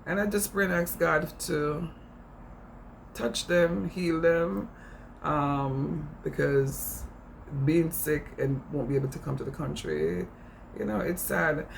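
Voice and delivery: slipping into a light Jamaican accent; earnest prayer with a Jamaican lilt. Real, not acted. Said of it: "I would go straight into my Jamaican accent".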